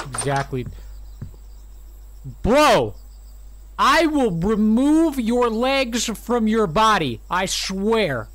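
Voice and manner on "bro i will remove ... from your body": loud, slow joking threat; mock threat. Real, not acted. Threatening follower.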